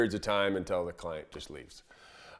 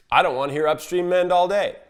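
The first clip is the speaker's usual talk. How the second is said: higher and louder, fed up; irritated snap; 8 semitones higher, 5 dB louder than usual. Retold or imitated. Client snapping at the guide, fed up. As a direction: snap it back at him.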